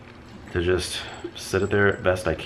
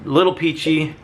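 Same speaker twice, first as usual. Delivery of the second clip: amused, higher laughing echo of the phrase; laughing repeat; 9 semitones higher, 3 dB louder than usual. Real, not acted. Candle reviewer laughing at her own description. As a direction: laugh as you echo the label.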